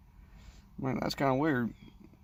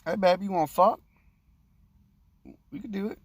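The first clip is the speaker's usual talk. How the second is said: mock come-on; 7 semitones higher, 4 dB louder than usual. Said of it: "I'm gonna say".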